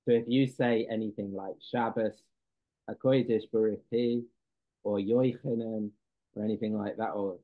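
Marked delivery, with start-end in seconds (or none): 1.7-2.2 "Shabbos" said the Ashkenazic way, ending in an s sound; Ashkenazic pronunciation. Shown as a demonstration. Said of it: "Ashkenazic Hebrew pronunciation". 2.9-4.2 "HaKodesh Baruch Hu" with an oy vowel in "Kodesh"; Ashkenazic pronunciation. Shown as a demonstration. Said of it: "Ashkenazic Hebrew pronunciation". 5.0-5.9 "Yoichanan" opened with an oy sound; Ashkenazic pronunciation. Shown as a demonstration. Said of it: "Ashkenazic Hebrew pronunciation".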